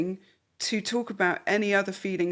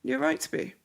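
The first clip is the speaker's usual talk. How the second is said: soft, steady acknowledgement; calm validating; 6 semitones higher, 3 dB quieter than usual. Shown as a demonstration. Wife calmly validating her angry husband, soft and steady. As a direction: take the heat out gently. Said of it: "You go".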